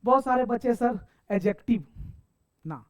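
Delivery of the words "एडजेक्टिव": एडजेक्टिव with the "d" sounded; mispronunciation. Shown as a demonstration. Teacher mimicking many students, एडजेक्टिव with an audible d. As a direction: say एडजेक्टिव as "ad-jective". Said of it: "एडजेक्टिव नहीं".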